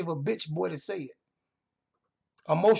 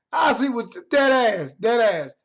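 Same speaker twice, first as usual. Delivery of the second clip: loud slow taunt; 4 semitones higher, 6 dB louder, slower than usual. Real, not acted. Taunting a chat viewer.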